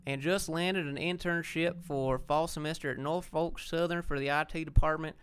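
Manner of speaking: reading a viewer comment in a light Georgia drawl, slow; a slow Georgia accent, only lightly done. Shown as a demonstration. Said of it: "I'm gonna read the rest of it like people in Georgia talk".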